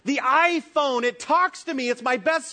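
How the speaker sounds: hammed-up delight over a new phone; mock gushing. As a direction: gush like a besotted shopper.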